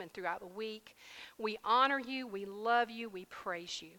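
fervent sermon prayer; closing prayer. Acted. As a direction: pray over the congregation.

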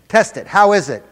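high, loud, eager demand; urgent questioning. Retold or imitated. Man checking on the one he prayed for, urgent questioning.

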